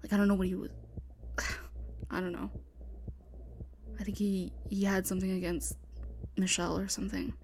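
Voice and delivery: hushed frightened whispering; tense whisper. Acted. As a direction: whisper urgently, hiding from killer.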